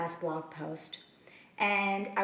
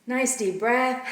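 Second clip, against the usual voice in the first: measured meditation guidance with long pauses between phrases; unhurried, leave room to breathe after each instruction; guided meditation. Acted. Teacher settling listeners into their seats and breath, guided meditation.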